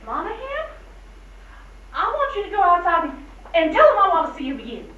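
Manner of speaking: brisk order. Acted. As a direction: rattle off the instruction. First giving of order to deputy.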